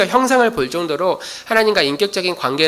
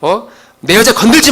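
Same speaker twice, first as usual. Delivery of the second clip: raised, heated mock outburst, rising to a loud flare at the end; imitating an angry retort; 5 dB louder than usual. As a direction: play Moses flaring up to defend his wife. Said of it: "막 발끈하면서". (아내를 감싸며 발끈하는 모세, 점점 높고 크게)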